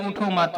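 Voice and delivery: "उठो मत" as one unit, no break after उठो; उठो मत run together. Shown as a demonstration. Teacher explaining the misread command to students, joining उठो and मत. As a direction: join मत straight onto उठो. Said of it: "यानी उठो ना".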